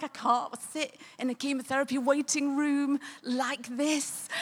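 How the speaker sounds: imitated high-pitched helpless protest; crying with laughter. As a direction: re-enact pleading through tearful giggles. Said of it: "then I started crying, we're laughing".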